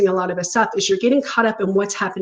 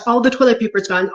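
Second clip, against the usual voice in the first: mock panic; faster than usual. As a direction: rush it out like the shelves are empty. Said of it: "But if that person is like".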